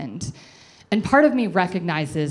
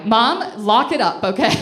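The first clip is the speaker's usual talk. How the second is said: louder, teasing call to her mother; playful scolding; 4 semitones higher, 5 dB louder than usual. Real, not acted. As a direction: tell Mom to cut it out, half-joking.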